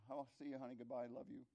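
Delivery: quick, offhand goodbye on the way out; casual throwaway. Shown as a demonstration. Preacher mimics a careless spouse, breezy and offhand. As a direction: toss it off like a routine farewell. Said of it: "It's not that".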